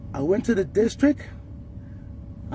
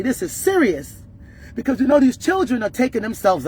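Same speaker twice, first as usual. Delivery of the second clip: angry. Real, not acted. Mother furious at unresponsive principal.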